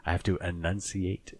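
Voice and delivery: slow down and carefully sound out "enunciate"; "enunciate" said slowly, syllable by syllable; over-enunciated. Shown as a demonstration. Self-confessed mumbler showing co-host the effort at hard words, over-enunciating. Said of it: "try to over enunciate sometimes on here".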